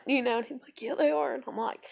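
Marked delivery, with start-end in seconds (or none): 0.8-1.3 loud, high mimicked insistence; insistent retort. Panicking boyfriend insisting to girlfriend, retold retort. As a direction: imitate him arguing back, voice pushed up. Retold back-and-forth argument.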